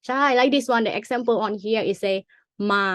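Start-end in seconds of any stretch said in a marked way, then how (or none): 2.5-2.8 มา on a level middle tone. Shown as a demonstration. Tutor reading an example to a student, middle tone. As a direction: keep มา even, no rise or fall. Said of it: "middle tone".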